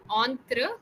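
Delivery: "Entrepreneur" broken up, starting "on-tru"; correct pronunciation. Shown as a demonstration. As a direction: model "Entrepreneur" in parts, on-tru first. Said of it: "the correct pronunciation is".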